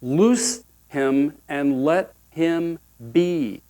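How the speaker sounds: slow, offhand, no fuss; casual release, drawn out; like no big deal. Acted. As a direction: say it as if it were nothing. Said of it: "like no big deal".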